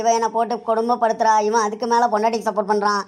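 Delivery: tearful lament. Acted. Mother crying to her dead husband about her son, tearful lament. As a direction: wail to heaven as the wronged mother. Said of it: "அழுவாதம்மா".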